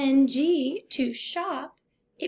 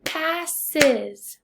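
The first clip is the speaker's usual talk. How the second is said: "Passes" slowly in two beats; syllable by syllable; 2 semitones higher, 4 dB louder than usual. Shown as a demonstration. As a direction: sound out "Passes" as pass, es. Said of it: "tap out the syllables".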